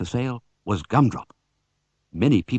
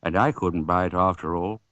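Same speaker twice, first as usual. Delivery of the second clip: sadly; 4 semitones lower than usual. Acted. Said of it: "said Mister Oldcastle sadly".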